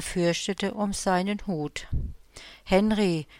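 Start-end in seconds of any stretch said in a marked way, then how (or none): 2.6-3.3 a light call of his name. Acted. The moon calls down to Henry, lightly voiced. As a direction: hail him mildly from afar. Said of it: "rief ihm der Mond zu".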